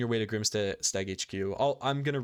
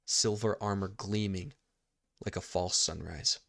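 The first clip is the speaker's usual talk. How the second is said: game master narration; 3 dB quieter than usual. A narrator's reading. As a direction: narrate the scene in short, paused phrases.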